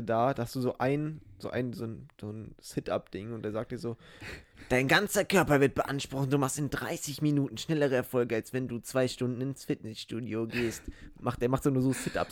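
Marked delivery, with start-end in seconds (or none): 4.7-10.8 teleshopping presenter. Retold or imitated. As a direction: sell it like a TV shopping host.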